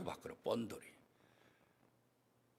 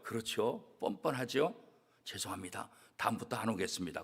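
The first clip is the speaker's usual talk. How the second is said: meek apology; 8 semitones lower, 8 dB quieter than usual. Acted. Sinner gives up, backs away.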